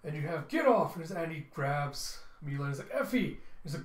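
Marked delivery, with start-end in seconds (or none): 0.5-0.9 loud, high yell; forceful high-pitched command; fighting shout. Acted. Fighting off vampires. 2.9-3.4 high, loud cry of a name; urgent high-pitched yell; desperate shout. Acted. Husband calls to attacked wife.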